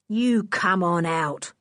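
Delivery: slow, menacing order; threatening. Acted. Lou threatening the children in the tunnel, slow menace. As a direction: lean on each word of You come on out. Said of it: "said Lou threateningly".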